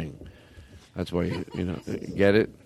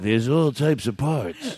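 laughing; 2 semitones higher, slower than usual. Acted. Salesman bit, laughing.

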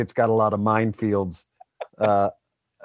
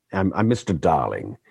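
English accent; 3 semitones lower than usual. Shown as a demonstration. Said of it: "that's not quite how I sound".

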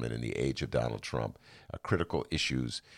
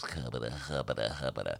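tongue-tied babble; 4 semitones lower, 6 dB quieter than usual. Retold or imitated. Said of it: "I had to talk for five minutes".

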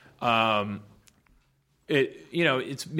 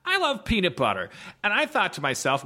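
documentary guy voice; 8 semitones higher than usual. Retold or imitated. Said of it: "bad documentaries about guys who go".

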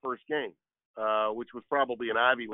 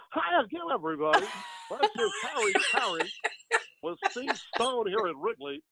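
Harry Caray impression; 9 semitones higher than usual. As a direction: do the old Cubs announcer, hamming it up. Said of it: "one of my favorites is, uh, is Harry Caray".

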